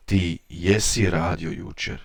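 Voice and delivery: jesi carries the weight of the sentence; emphasis on jesi. Shown as a demonstration. Teacher demonstrating emphatic jesi to learners. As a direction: lean on jesi as if contradicting someone. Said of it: "used to add extra emphasis to the statement".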